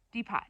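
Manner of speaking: "Depot" as dee-pot, dropping at the end; "Depot" read as spelled; misread pronunciation. Retold or imitated. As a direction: sound the T in "Depot". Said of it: "he grew up reading it and not saying".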